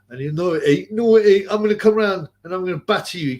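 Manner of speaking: mock-threaten someone down the phone; lively imitation of an angry caller; retold angry threat.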